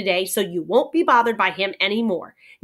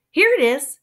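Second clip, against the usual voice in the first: higher, louder kindly offer; 7 semitones higher, 7 dB louder than usual. A narrator's reading. Omri returning the cowboy's hat, kindly. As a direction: hand it over kindly. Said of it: "he said kindly".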